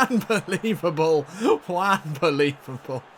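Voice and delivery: loud, high burst of laughing joy; excited goal call. Real, not acted. Commentator celebrating Brunetta's goal, excited goal call. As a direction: erupt as the goal goes in, then savour it.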